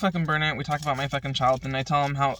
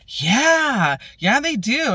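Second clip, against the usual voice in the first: high, squeaky mock voice of the friend; mimicking her friend; 9 semitones higher, 4 dB louder, much slower than usual. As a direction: play her up as eager and high-pitched. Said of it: "And she's like".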